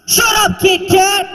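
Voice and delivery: high, hateful snap of Kit Kat; a high, sneering mock slur; mock racist slur. Shown as a demonstration. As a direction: spit Kit Kat like an insult. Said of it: "let me see if I can create a racial slur".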